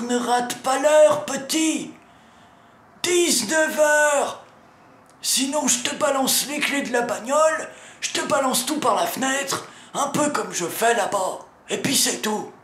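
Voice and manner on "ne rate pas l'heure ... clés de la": stern warning. Acted.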